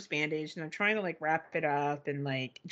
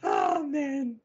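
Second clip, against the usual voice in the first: laughing; 8 semitones higher, 3 dB louder, much slower than usual. Real, not acted. After laughing fit.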